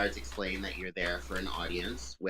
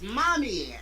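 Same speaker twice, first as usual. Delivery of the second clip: high, loud, overjoyed cry of Mommy; squealing child running to her mother; elated yell; 13 semitones higher, 7 dB louder than usual. Acted. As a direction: shout Mommy like a thrilled child. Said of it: "she elatedly yells".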